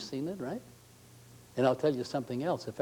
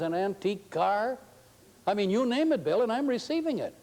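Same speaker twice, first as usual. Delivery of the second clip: excited treasurer; 7 semitones higher than usual. Retold or imitated. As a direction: reel off the list in giddy wonder. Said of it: "he'll say".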